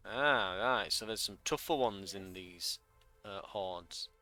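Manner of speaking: normal talking voice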